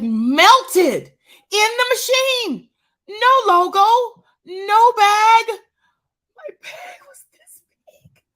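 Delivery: high, loud comic wail; half-laughing fake sob over the melted bag; mock wailing.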